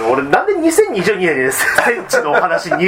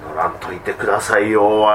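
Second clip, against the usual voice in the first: polite Kansai dialect; 8 semitones lower than usual. Retold or imitated. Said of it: "いや、名言ですね".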